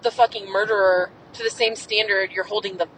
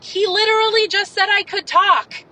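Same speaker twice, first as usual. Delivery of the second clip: much higher, exasperated disbelief; incredulous protest; 9 semitones higher than usual. Retold or imitated. Retelling being yelled at in court, incredulous and much higher. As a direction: squeak it out like you can't believe this. Retelling the stenographer yelling at her.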